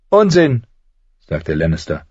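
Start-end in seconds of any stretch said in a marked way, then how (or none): 0.1-0.7 higher, sly and needling; a higher, sardonic little man's voice; mocking dwarf Tyrion. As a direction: talk down to a would-be lord with cool mockery. Tyrion dismisses Luwin.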